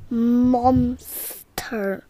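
hushed, breathy whisper of wonder. Acted. Child whispering to Grandpa about the snail. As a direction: breathe the word like a secret.

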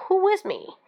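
high, rousing leader's call; rally the followers behind you. Shown as a demonstration. Leader rousing the crowd after a speech, rallying call. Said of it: "So probably just say".

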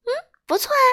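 high, bright voice with a laugh; laughing happily. A narrator's reading. Miss Sunshine praises the king, laughing happily. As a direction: say it with a happy laugh. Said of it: "开心地大笑着说".

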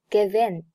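"give in" said like "gi-vin"; linked pronunciation. Shown as a demonstration. Teacher demonstrates 连读, "give in" linked. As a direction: carry the v of "give" into "in". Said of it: "Give和in连读".

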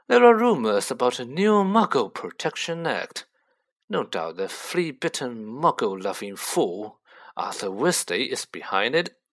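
lightly voiced haughty gentleman; a hint of aristocratic scorn; lofty Malfoy, disdainful.

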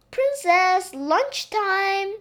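put-on high sing-out call to a child. A narrator's reading. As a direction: call her in from afar, loud and high. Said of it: "called the maid".

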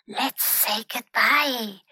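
timid hushed suggestion; whispered. A narrator's reading. Pinky scared at the rat's door, hushed. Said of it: "whispered Pinky".

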